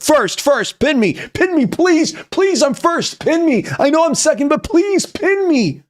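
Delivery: high-pitched pleading mock voice; begging commenters. Streamer mimics first commenters begging to be pinned, high whiny plea. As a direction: squeal it like desperate fans begging. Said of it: "first comments are gonna be like".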